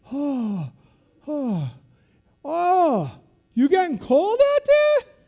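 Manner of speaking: loud, high taunting instructor; hammed-up drill instructor taunt; mocking instructor. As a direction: jeer at the cold trainees through a megaphone. Instructors mocking cold trainees.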